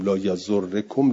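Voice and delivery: لا یزرکم slow, doubled r with e, rising at the end; لا یزرکم said slowly with kasra; kasra variant. Shown as a demonstration. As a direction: say لا یزرکم with rorrekum. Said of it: "چهار جور جایز شد".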